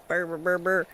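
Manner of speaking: soft shivery burr sounds; shivering brr. Real, not acted. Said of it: "I'm so cold".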